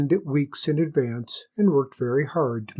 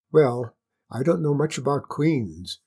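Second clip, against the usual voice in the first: reasonable hare. Acted. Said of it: "said the hare very reasonably".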